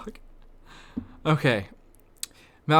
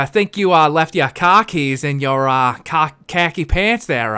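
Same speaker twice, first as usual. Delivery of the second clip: JFK impression; 4 dB louder than usual. Repeats line in JFK voice.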